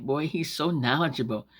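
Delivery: mock-impressed remark; sarcastic praise. Praising a man you think is dumb, sarcastic. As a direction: lightly feign admiration. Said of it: "saying things that you really don't mean".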